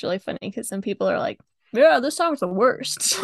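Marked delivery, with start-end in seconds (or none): 1.7-3.2 slow, raised mock complaint; disgusted verdict. Imitating people on the street panning a song, disgusted. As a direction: draw it out like an unimpressed passer-by.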